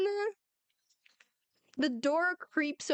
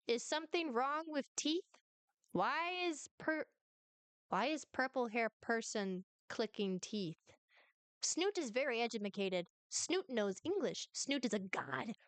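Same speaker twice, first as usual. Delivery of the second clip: lightly voiced self-important creature; Snoot, haughty little reptile; 7 dB quieter than usual. Reptile puzzled by a visitor's teeth clicking, lightly haughty. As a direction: speak as a small, proud reptile, deliberately paced.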